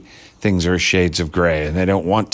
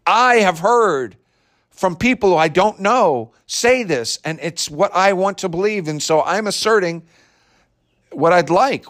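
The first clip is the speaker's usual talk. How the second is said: mocking the tweeter; 8 semitones higher than usual. Vlogger mocking a tweeter's opinion, high sneering voice. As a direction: sneer the tweet back at him in a raised voice. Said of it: "If he had said".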